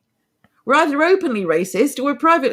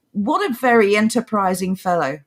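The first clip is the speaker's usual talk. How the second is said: dry mock admiration; sarcasm. Real, not acted. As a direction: praise it sarcastically, as if impressed. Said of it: "did I overdo the sarcasm there".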